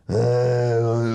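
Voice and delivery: long, droning zombie groan. Retold or imitated. Drunk man eyeing the back seat, zombie groan. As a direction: groan like the undead. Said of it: "He's like a zombie".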